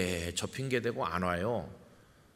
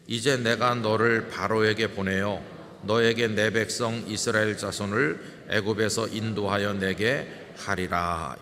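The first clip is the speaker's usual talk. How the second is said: louder, measured Bible reading; scripture reading; 4 dB louder than usual. Acted. Pastor reads the verse with the congregation, in a solemn proclaiming voice.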